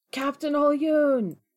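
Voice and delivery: calling out loudly. Voicing Chert calling after the captain: Chert yelling. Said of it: "That, that's Chert yelling".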